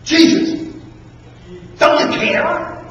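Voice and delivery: loud, breathy cry over the wind; frightened disciples screaming to wake Jesus; screamed plea. Acted. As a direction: yell it into the storm. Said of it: "They screamed".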